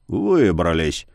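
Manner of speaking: low, plain grumbled echo. A narrator's reading. Yar grumbling the word back to the youth. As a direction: mutter "Выбрались!" back flatly. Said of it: "буркнул Яр".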